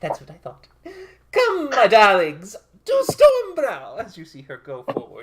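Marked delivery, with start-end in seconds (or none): 0.0-4.0 very high, very loud, shrill, booming triumphant cry. Storyteller voicing Lulu as she leads her darlings off, triumphant Lulu. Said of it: "with her little triumph face".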